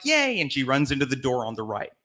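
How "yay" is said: a squealed, much higher cheer; delighted cheer. Retold or imitated. Good Christian kid cheers her entry to heaven, high squeal. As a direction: chirp it like a thrilled kid let into heaven.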